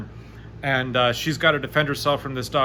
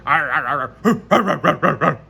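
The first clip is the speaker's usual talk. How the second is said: growled barks, louder toward the end; dog growls; 5 dB louder than usual. Acted. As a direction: snarl like a charging dog. GM voices the attacking dog.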